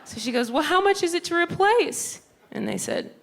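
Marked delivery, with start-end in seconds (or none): 0.5-2.2 high, louder mom voice; imitating her mom asking the price. Mom asking the store clerk, high and loud.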